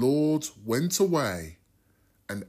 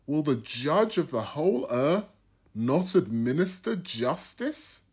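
Abraham, lightly voiced, pressing his case a bit higher; pleading Abraham; 5 semitones higher than usual. Abraham bargaining with the Lord for Sodom, mildly pleading. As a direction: plead earnestly for the just men.

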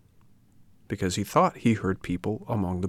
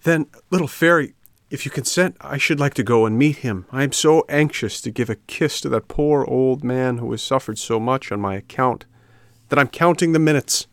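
higher, excited puppet voice; eager puppet; 5 semitones higher, 3 dB louder than usual. Acted. Puppet anxious to meet his papa, higher eager voice. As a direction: plead eagerly, pitched up and lively.

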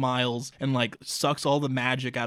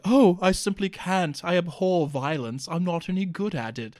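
prim refusal; 3 semitones higher than usual. Retold or imitated. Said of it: "he's like".

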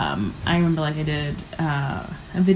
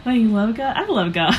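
higher, louder mock-preachy take, breaking into a laugh; a hint of a mocking believer, laughing at the end; mocking the viral sound; 6 semitones higher, 4 dB louder than usual. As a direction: lampoon the preachy sound and crack up. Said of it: "to, like, make fun of".

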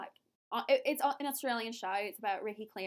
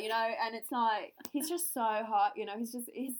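Love Island contestant in Scouse; attempted Scouse. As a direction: put on a chatty Scouse accent. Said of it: "That's Scouse, if you're wondering, or an attempt".

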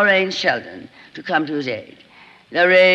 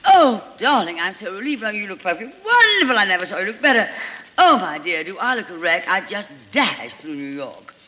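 chattering society actress. Acted. Lorraine chattering gossip.

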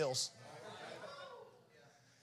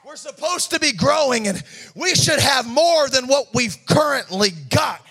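boastful claim; 4 semitones higher, 3 dB louder than usual. Acted. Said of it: "they start saying".

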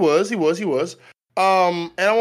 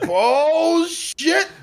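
mock shock; 11 semitones higher than usual. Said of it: "It was like".

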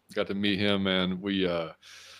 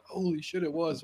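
much higher and hushed, a mock gasp of realization; stunned realization; 8 semitones higher, 6 dB quieter than usual. Recalling spotting Michael Jenkins, a hushed, high stunned realization. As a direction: let it dawn on you, high and breathy-quiet. Sudden recognition in retold story.

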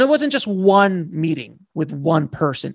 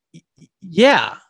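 awkward stammer; 4 dB louder than usual. Retold or imitated. Awkward stammered reply to friends.

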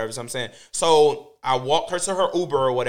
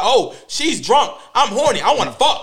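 higher, very slow hammed-up sleazy guy; lightly voiced horny bozo, drawn out; mock creep voice; 7 semitones higher, 4 dB louder, slower than usual. Mocking a sleazy guy outside the bar, higher and slow. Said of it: "'Cause a fucking bo's like".

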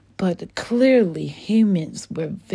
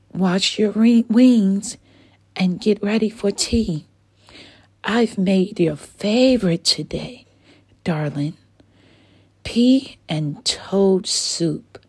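Mama Dragon; 3 semitones higher than usual. Acted. Mama Dragon calling Dylan to wash for tea, fond. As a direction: call your son in for tea like a doting mom.

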